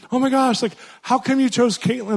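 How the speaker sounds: high, bubbly squeal of surprise; excited squeal. Retold or imitated. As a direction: gush it with girlish delight. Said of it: "And she goes".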